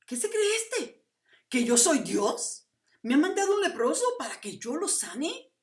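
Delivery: high, indignant shouted questions; shrieked outburst. Acted. Offended king handed a leper to heal, shrieking in outrage. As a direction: shriek it in outrage, stretching the key words. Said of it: "se molesta y rasga sus vestidos, y chilla y grita".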